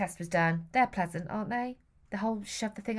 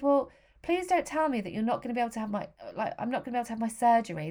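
panicked plea; 4 semitones higher, faster than usual. Retold or imitated. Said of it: "I started to cry. I was shaking".

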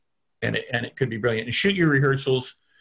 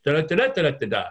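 da-da rhythm with pitch jumping up and down; mocking a director's rhythmic line read; sing-song line read. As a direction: sketch the tune with da-da syllables. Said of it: "You say it like this".

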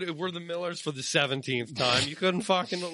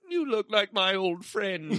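mock Obi-Wan, laughing; 4 semitones higher, slower than usual. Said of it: "'cause you were like".

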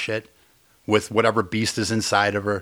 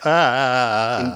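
uneasy groan. Retold or imitated. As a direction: re-enact a long squirming groan. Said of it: "I was just like".

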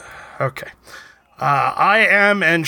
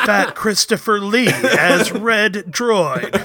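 movie trailer announcer; 4 semitones higher, slower than usual. Acted. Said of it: "I thought you were doing an ad".

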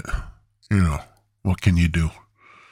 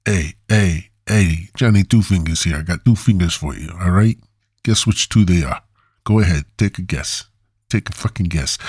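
hammed-up Italian-American tough guy accent; a rough, mock Italian accent with cocky threats; poorly done Italian accent. Johnny Two Fingers warning listeners not to mess with him, bad Italian accent. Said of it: "a poorly done Italian accent".

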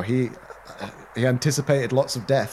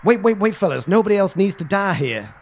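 urgent peacemaker cowboy; 3 semitones higher than usual. Acted. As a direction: burst in to calm the gunmen. Juan Cornetto interrupts showdown.

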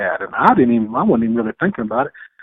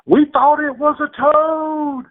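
high, slow quoted movie line; slower than usual. Retold or imitated. Hunter answers the crying lady with a movie line, high and slow. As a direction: deliver it like the movie character. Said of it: "I gave her a little line off of".

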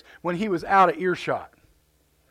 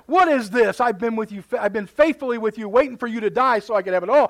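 put-on indignant older brother; 3 semitones higher, 6 dB louder than usual. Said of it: "he got indignant".

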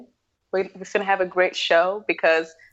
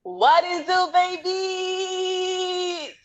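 sultry greeting; 11 semitones higher, much slower than usual. Acted. Playful greeting to cohost.

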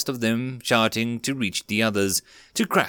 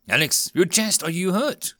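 sudden high alarm, voice jumping up; Ricky spots blood and cries out; 8 semitones higher than usual. Acted. Ricky sees Alex's chest, alarmed high cry.

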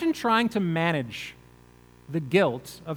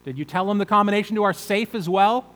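angry father; 4 semitones higher, 5 dB louder than usual. Retold or imitated. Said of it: "And so Jacob is saying to them".

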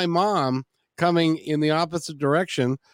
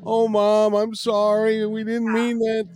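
put-on pleading kids; 8 semitones higher, slower than usual. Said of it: "the response that she wanted".

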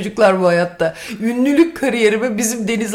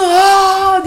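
mock surprised; 7 semitones higher, 5 dB louder than usual. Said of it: "diye tutup böyle şşş".

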